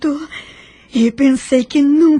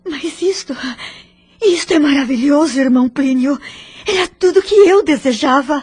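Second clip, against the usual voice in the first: overjoyed; 3 semitones higher, faster than usual. Acted. Daughter thrilled by the good news.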